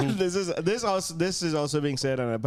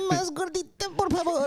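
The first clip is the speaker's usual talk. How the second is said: mock Spanish accent. Joins the silly accent bit.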